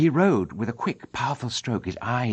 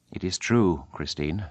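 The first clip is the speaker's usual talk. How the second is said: lower, hushed masked man; a hint of Eric, low and confiding; Eric's voice; 5 semitones lower than usual. Eric confesses to Christine.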